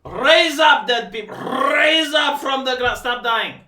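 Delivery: fake-sob preacher raising the dead; theatrical grief, ordering the dead to rise; mock emotional outburst. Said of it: "sorry if I'm emotional".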